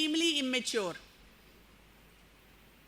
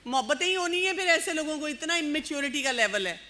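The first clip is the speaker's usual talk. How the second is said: ordinary delivery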